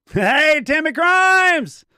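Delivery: loud, high, slow call across the yard. Real, not acted. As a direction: hail her from afar. Calling out to a neighbour.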